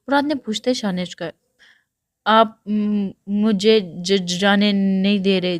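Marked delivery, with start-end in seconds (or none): 2.2-5.6 slow, halting, stammering through tears; slow sobbing stutter, a little louder; sniffling and sobbing. Acted. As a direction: choke the words out like a frightened crying girl. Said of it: "سو سو سو کرتی".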